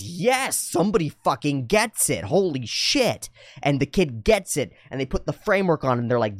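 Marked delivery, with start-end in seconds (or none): 0.0-3.3 put-on high, emphatic kid finally understood; relieved kid. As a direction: act a child's amazed relief. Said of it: "And the kid goes".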